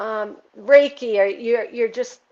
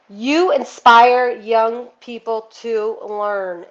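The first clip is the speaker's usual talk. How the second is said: slow, louder, reading the card's message out; 6 dB louder, much slower than usual. Real, not acted. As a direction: lay each word down slowly and clearly. Reads card text aloud.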